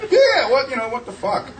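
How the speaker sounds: high, laughing yelp of disbelief; reacting to a crude suggestion, high laughing disbelief; shocked disbelief. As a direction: squeak out the shock, then soften. Reacting to friend's blowjob idea.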